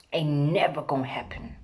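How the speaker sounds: whispered dismissive repeat; a sly whispered aside. Real, not acted. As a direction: drop to a whisper to drive it home.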